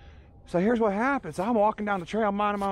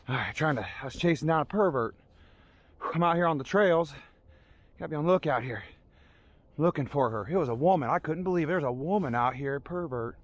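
panting between phrases; breathless after running; out of breath; 4 semitones lower than usual. Pretend. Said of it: "I'm out of breath".

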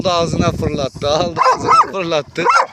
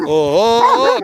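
surprised oho; 4 dB louder than usual. Real, not acted. Surprised exclamation.

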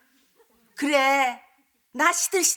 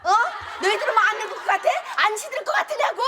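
indignant scolding; 5 semitones higher, 3 dB louder than usual. Acted. Mother-in-law scolding daughter-in-law.

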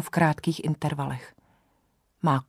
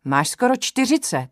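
put-on higher, croaked warning of an old herbalist; croaking old woman; 7 semitones higher, 4 dB louder than usual. Old herbalist reading the thermometer to the patient, croaky higher voice. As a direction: croak the fever out like a crone. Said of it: "zaskuhrala Lucka".

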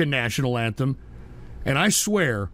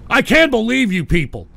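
real exasperation; 3 semitones higher, 4 dB louder than usual. Real, not acted. Host berates trolls who humiliated him, exasperated. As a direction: scold them, pitched up in disbelief.

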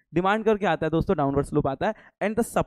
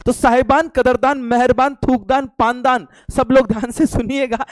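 louder, higher mock fair-announcer roll call; mock showman call; 4 semitones higher, 5 dB louder than usual. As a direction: hype it like a street showman. (मज़ाकिया मेला-उद्घोषक अंदाज़ में ऊँची, ज़ोरदार पुकार)

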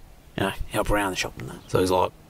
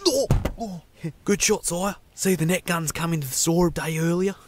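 much higher, thin servant creature voice; 10 semitones higher than usual. Acted. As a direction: squeak it like a grovelling minion. Servile creature voice.

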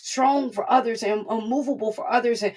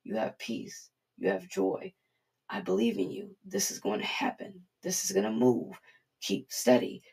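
God's gentle voice. Retold or imitated. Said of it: "God's sitting here telling you".

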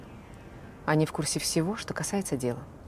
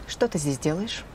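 usual speaking voice

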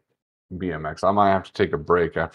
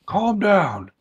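high, teasing calm down; mock soothing; 13 semitones higher, 6 dB louder than usual. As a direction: pretend to soothe him.

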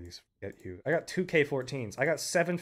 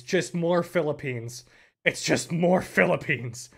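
exasperated drawl; 2 semitones higher, 4 dB louder, slower than usual. Real, not acted. Exasperated at the repeats.

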